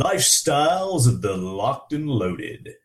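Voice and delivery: slow, half-hearted trailer announcer; movie trailer voice. Shown as a demonstration. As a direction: try a dramatic movie trailer read. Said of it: "you gotta say it with a movie voice".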